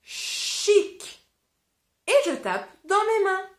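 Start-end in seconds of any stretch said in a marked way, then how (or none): 0.0-1.2 chic, breathy and high; teacher repeating the word chic; repeated word. Shown as a demonstration. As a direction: say chic once, crisply. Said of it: "Alors je le répète".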